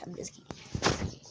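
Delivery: breathy whisper, no voice; whispered aside. Real, not acted. Gamer retracting a joke threat, whispering. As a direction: take it back under your breath. Aside after exaggerated claim.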